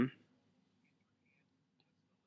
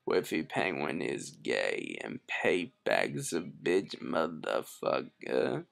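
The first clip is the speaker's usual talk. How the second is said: Wheezy voice; 10 semitones lower, 6 dB quieter than usual. Pretend. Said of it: "Let me go back to doing my Wheezy voice".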